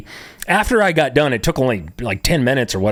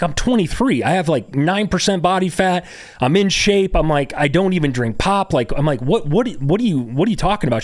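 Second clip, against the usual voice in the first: higher-pitched, disbelieving retold objection; incredulous protest; 5 semitones higher than usual. Son protesting cancer news to his mom, incredulous.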